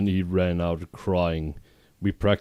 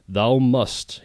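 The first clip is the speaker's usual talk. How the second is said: higher, louder mock yell; hammed-up villain command; 5 semitones higher, 4 dB louder than usual. Voldemort orders Ebony to kill, a mock yell. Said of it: "he yelled".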